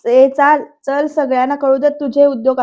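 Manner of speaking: a burst of retold impatience; angry order. Varad drags Vaidehi into the house, angry order. Angry man dragging her indoors.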